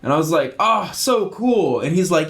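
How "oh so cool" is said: retold wonder. Dad marvelling at roly-polies.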